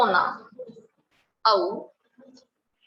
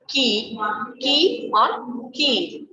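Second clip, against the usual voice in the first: slow demo; much slower than usual. Shown as a demonstration. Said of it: "देखिए".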